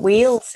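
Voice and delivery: "Wales" said like "wheels"; mispronounced Wales. Real, not acted. Podcast host guessing at a Welsh accent, "Wales" said like "wheels". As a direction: make "Wales" sound like "wheels". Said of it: "like on a bike?".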